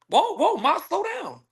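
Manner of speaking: high-pitched whoas to slow her; mock protest. Man halting an imagined woman's jumping, mock protest. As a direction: pull her up, voice lifted.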